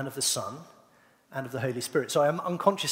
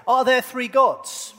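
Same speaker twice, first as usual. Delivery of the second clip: loud, slow, higher call to the room; louder question; 5 semitones higher, 7 dB louder, slower than usual. Shown as a demonstration. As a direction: ask it louder, slowly and punchily. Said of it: "maybe a bit louder".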